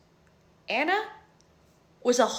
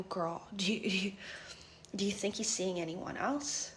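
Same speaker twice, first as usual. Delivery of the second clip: whispered, softer question; hushed whisper; 2 semitones lower, 11 dB quieter than usual. Retold or imitated. Asking her friend if he's cheating, whispered.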